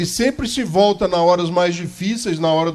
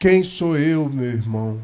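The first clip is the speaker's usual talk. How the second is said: whiny, limp, low-pitched voice; 3 semitones lower, 4 dB quieter than usual. Speaker mocks people who doubt themselves, imitating a whiny, limp voice. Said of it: "com aquela voz lamuriosa, com aquela voz mole".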